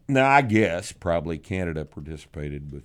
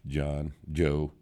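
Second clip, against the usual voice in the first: usual speaking voice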